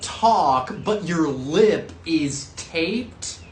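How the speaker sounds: high, slow, strained dummy voice; squeaky ventriloquist dummy. Acted. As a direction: talk like a wooden doll. Ventriloquist act, doll voice.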